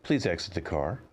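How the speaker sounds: even, announcer-like car voice; robot car voice. Acted. Driverless car tells passengers to get out, in an automated voice. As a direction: read it like an automated ride voice.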